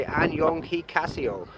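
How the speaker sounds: "Annyeong hikaseo" said slowly; Korean goodbye. Shown as a demonstration. Vlogger teaching goodbye at seven eleven, slow "Annyeong hikaseo". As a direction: ease through "Annyeong hikaseo". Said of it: "You say".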